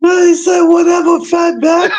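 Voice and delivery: high, loud, laughing imitation. Real, not acted. Friend laughing and replaying the insult loudly. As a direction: yell the insult while cracking up.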